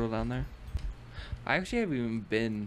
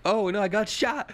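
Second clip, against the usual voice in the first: man down shout; 9 semitones higher, 4 dB louder than usual. Pretend. Shot by skeleton in game.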